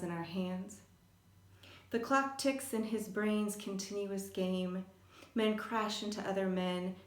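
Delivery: measured, even read-aloud of a poem; poetry reading. Acted. Poet reads a poem on her son's epilepsy to listeners, poetry reading. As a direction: recite it line by line, with pauses between phrases.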